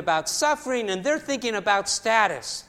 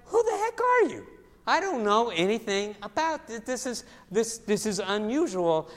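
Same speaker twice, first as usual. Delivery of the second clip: startled question. Retold or imitated. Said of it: "And Russ is like".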